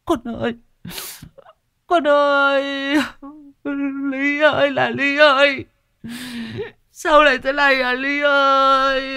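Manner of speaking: wailing and sobbing. A narrator's reading. Mother keening over her dead daughter, high and sobbing. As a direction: beat your chest and keen for your child. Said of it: "mà khóc".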